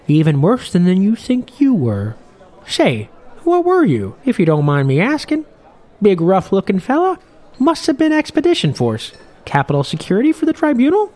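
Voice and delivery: put-on old fisherman. Old captain grumbling to Morwell at the bar, in a high loud old-man voice.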